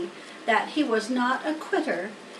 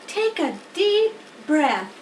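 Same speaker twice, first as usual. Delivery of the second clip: higher, slow, smiling instruction; smiling coach; 5 semitones higher, 3 dB louder, slower than usual. Acted. Charlotte coaching Wilbur, slow and smiling. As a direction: coax him kindly. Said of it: "said Charlotte, smiling".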